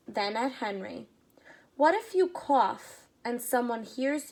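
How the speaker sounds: lively read-aloud storytelling; story narration. A narrator's reading. Reading a story aloud to children, lively. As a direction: read it to the kids, paint each scene.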